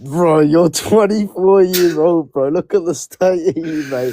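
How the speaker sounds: slow, drawn-out mockery; mocking disbelief. Real, not acted. Streamer mocking rival's age, slow and drawn out. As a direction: stretch it out to rub it in.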